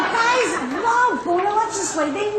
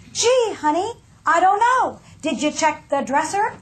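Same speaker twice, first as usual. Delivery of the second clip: non-judgmental tone. Retold or imitated. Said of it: "in a tone of voice that's non-judgmental".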